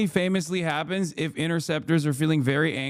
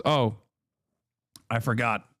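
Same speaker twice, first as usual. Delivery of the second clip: usual speaking voice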